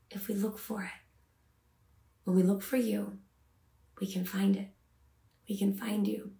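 unhurried prayer with pauses between short phrases; measured devotional prayer; spoken prayer. Real, not acted. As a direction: pray sincerely, leaving space after each line. Prays aloud to God.

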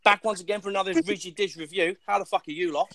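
mock Australian review intro; put-on Australian vlogger greeting; Aussie accent. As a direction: impersonate an Aussie video reviewer. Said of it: "I could do an Aussie".

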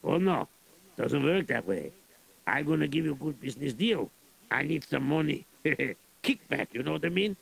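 put-on lightly accented Russian general, gruff and greedy. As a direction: play a scheming Russian general. Plays Russian general in story.

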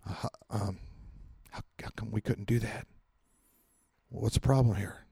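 sheepish disciples. Retold or imitated. Disciples sheepishly asking Jesus why they failed, very soft. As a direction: ask meekly, embarrassed. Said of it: "Disciples come over quietly".

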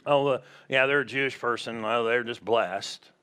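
low offhand remark; imitating people's talk. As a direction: lightly act out someone commenting in passing. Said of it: "Or people do".

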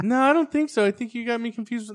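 mock a puzzled girl's polite refusal; imitated girl. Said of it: "She's like".

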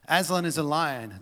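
emphatic storybook proclamation; Mister Beaver. Acted. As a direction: build the title up phrase by phrase. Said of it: "tells us in his enduring brogue".

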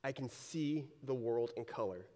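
a slow, drawn-out gasp of awe at new sight; amazed wonder. Retold or imitated. Believer seeing the world in color for the first time, slow awe. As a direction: let the wonder stretch out slowly, then settle. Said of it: "You're like".

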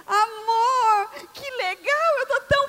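tearful joy. Acted. Wife moved by gift.

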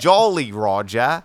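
put-on slow English accent "Jolly Roger". English accent, trying British phrases with his friend. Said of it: "do some more English".

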